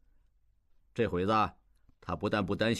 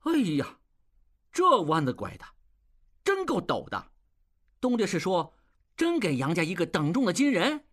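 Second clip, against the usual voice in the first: excited cry; 8 semitones higher than usual. Acted. Apprentice crying out at the master's plan, high and amazed. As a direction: cry out, astonished at the twist. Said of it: "小栓叫道".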